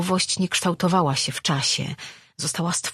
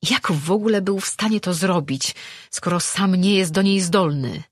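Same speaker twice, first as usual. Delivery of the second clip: higher-pitched angry questioning; 4 semitones higher than usual. Acted. Man railing at his absent creator, angry. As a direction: keep raging, pitch lifted. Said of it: "Złościł się".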